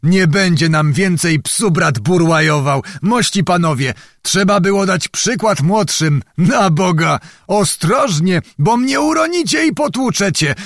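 a braggart fussing at his bearers; a hint of a bragging old squire; boastful old nobleman. Boastful noble carried by soldiers.

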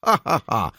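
high, loud spoken ha-ha-ha; scornful acted laugh. A narrator's reading. Baroness laughs at the price, mock laughter. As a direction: laugh it out mockingly, word by word. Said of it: "zaśmiała się baronowa".

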